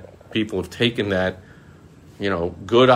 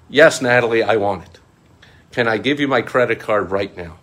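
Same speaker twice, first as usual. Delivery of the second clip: mock eager; 3 semitones higher, 6 dB louder than usual.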